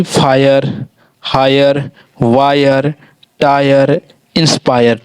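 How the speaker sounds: slow list with "ai-yar" in फायर, हायर, वायर; teacher reading examples one by one; pronunciation demo. Shown as a demonstration. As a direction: space out each word, clear "eye" in टायर. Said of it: "हम लोग आई का उच्चारण दे देते हैं".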